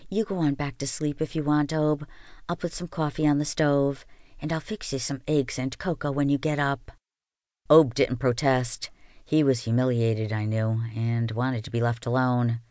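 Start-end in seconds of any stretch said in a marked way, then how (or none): 0.1-6.9 soft, gentle, tender voice. Acted. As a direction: soothe him kindly. Comforting ashamed old man.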